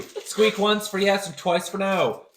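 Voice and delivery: slow explaining to an animal; slow and deliberate. Acted. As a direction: spell it out slowly. Talking slowly to mouse.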